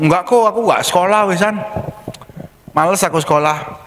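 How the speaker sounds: lightly voiced sulky boy, a bit fast; a boy who can't be bothered with school; child's voice. Anak menjawab soal sekolah. (suara anak malas yang ringan)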